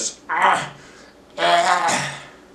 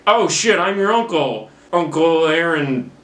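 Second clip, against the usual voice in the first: mock shocked uncle; 5 semitones higher than usual. Prowler realizing Miles is his nephew, mock surprised. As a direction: jolt up in hammed-up shock. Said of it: "And Prowler's like".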